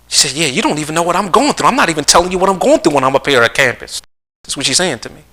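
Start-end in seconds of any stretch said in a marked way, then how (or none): 0.4-4.0 lightly voiced daughter, a raised pitch; daughter venting. Daughter at campus vents to parent, higher-pitched complaint. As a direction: retell a daughter's protest, pitched a bit up.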